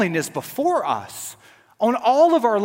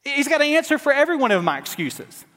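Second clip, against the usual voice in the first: exasperated Moses; 2 semitones higher than usual. Acted. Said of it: "Moses, even here, is saying".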